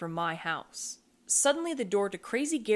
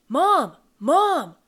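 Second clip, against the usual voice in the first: high, loud panicked call; frantic, high-pitched shouts; yelling; 7 semitones higher, 11 dB louder than usual. A narrator's reading. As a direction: yell for a parent at full volume. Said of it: "yelling my head off".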